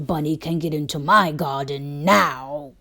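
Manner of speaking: proud, gruff farmer boast; gloating farmer. Acted. Farmer gloats to himself about keeping bunnies out, smug. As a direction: brag about the fenced garden.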